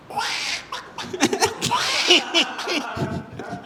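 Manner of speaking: high quacking sobs; mock duck weeping; Donald Duck crying. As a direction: sob in a wordless cartoon duck voice. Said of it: "Donald Duck, uh, crying".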